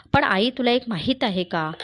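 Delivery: put-on girl boldly raising her voice to the grandmother; girl speaking loudly. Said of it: "शांती जोरात बोलते बघा".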